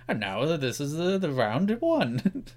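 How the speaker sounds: lightly voiced host intro, drawn out slow at the end; a hint of a TV quiz host announcing the round; game-show host. Mocking Alexander Armstrong reusing stock footage, mild host voice. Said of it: "stock footage of saying".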